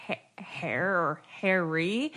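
slow, soft whisper. Real, not acted. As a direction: breathe it like a secret. Whispered punchline.

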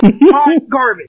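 yelled catchphrase; shouting. Real, not acted. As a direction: belt out the catchphrase. Caller yells catchphrase.

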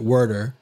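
"werder" with an r-coloured first vowel; Philly pronunciation. Retold or imitated. Husband quoting his wife's Philly family, "werder" in their pronunciation. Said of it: "wife's family pronounces it werder".

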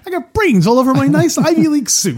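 white bread Mikey. Pretend. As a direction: complain like a pampered Ivy Leaguer. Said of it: "our white bread version".

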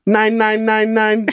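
slow, high, even repeats; mimicking microwave buttons. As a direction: punch in each number like keypad beeps.

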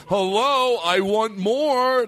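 laughing through a slow mock greeting; laughing retell. Friend retelling the joke, laughing. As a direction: giggle out the greedy hello. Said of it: "that's how I laugh when they said it".

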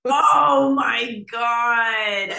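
loud, slow shocked cry. Real, not acted. Friend hearing a wild story, shocked loud cry. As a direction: gasp it out in disbelief.

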